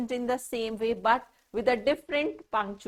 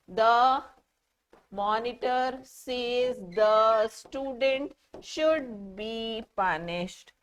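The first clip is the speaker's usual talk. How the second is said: slow and deliberate; much slower than usual. Shown as a demonstration. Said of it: "The same words, the same sequence".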